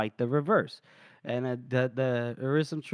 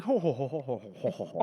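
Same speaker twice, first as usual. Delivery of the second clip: mock group laughter; 3 semitones lower, 4 dB quieter than usual. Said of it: "And everyone's like".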